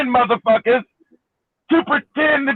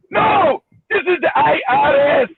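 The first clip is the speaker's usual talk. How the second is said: higher, insistent mock Indian accent; 5 semitones higher than usual. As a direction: correct them firmly, imitating an Indian accent. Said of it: "with an Indian accent".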